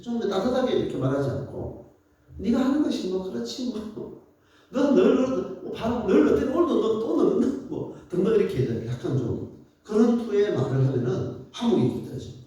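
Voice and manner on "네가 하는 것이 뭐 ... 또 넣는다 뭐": higher, mocking, belittling tone; sarcastic parent. Parent sneering at a child, a hint of sarcasm. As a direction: needle the child with mock scorn. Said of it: "비꼬듯이 말하는 거".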